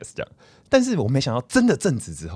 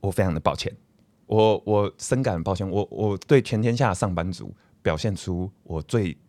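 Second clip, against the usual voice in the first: fake apology; 3 semitones lower than usual. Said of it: "你现在给我郑重道歉".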